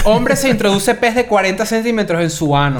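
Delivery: slow announcing headline read; news read. Shown as a demonstration. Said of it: "Vamos a leer la noticia".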